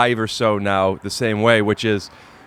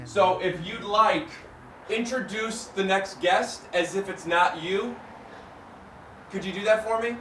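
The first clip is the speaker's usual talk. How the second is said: muffled, quiet through toothpaste; while brushing teeth; 7 semitones higher, 10 dB quieter than usual. Real, not acted. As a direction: speak around a toothbrush. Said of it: "I'm brushing my teeth".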